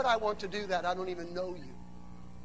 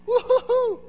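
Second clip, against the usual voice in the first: high, loud, rippling "woo-hoo-hoo"; exultant whooping; 12 semitones higher, 8 dB louder than usual. Real, not acted. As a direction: whoop out in celebration. Whooping after the proclamation.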